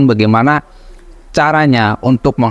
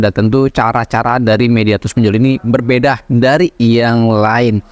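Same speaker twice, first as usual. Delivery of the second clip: talking with a cigarette in the mouth; smoking while talking, cigarette between lips. Real, not acted. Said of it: "sambil ngopi dan sambil ngerokok". (bicara sambil merokok)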